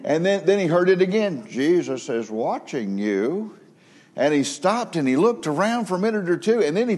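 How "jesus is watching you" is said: quirky squeaky parrot voice. Retold or imitated. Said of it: "odd sounding, kind of quirky, squeaky voice".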